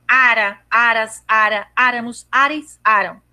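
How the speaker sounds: "Ara" and "aras" with R pronounced firmly; strong R. Shown as a demonstration. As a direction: sound the R in "áramos" strongly. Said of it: "você tem o R bem forte".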